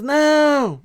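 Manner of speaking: high, loud desperate cry of no; panicked shout. A narrator's reading. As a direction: shriek it in panic. Panicked senator refuses. (grito desesperado)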